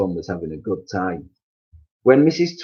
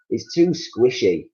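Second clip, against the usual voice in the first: mouth full; 3 semitones higher, slower than usual. Acted. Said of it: "talking with his mouth full".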